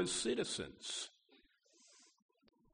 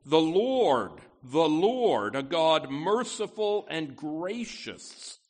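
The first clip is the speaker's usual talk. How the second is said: scripture reading. Acted. Pastor reads Exodus aloud.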